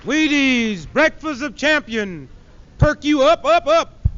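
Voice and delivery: hammed-up TV pitch for breakfast cereal; mock cereal ad. Comedian mocking a Wheaties commercial, mock ad voice. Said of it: "I know that's a lie".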